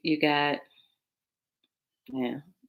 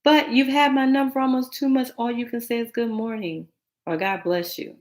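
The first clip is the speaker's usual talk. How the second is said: exasperated; 6 semitones higher than usual. Retold or imitated. Exasperated retort quoted.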